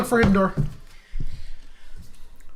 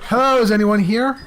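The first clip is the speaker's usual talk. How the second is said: man doing a woman's voice. Acted. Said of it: "disguise your voice as a lady".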